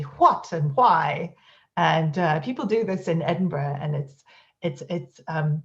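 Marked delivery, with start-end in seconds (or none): 0.0-0.5 "what" with a breathy HW onset; "what" with a puff of breath, Irish style; aspirated what. Shown as a demonstration. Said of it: "he also has a aspiration in W H words". 0.8-1.3 "why" with a breathy HW onset; "why" with a puff of breath; aspirated why. Shown as a demonstration. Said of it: "he also has a aspiration in W H words".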